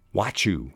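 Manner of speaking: "what you" run together as "whatchoo"; phonetic shortcut. Shown as a demonstration. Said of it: "If you use gonna for going to".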